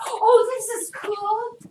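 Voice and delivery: high, slow gasp of delight; a toddler's breathless "this is cool"; excited wonder. Retold or imitated. Teacher voicing a toddler finding something new, wide-eyed.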